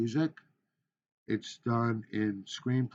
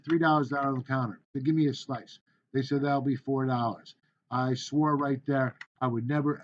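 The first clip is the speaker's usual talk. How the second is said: demo speech. Shown as a demonstration. Teacher performing a sample speech for students, formal. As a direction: present it like a class speech.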